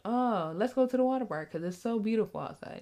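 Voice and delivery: a hint of oblivious, lilting delight; mock carefree partner. Cheerful partner oblivious to her inner hurricane, mock carefree. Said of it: "and he just".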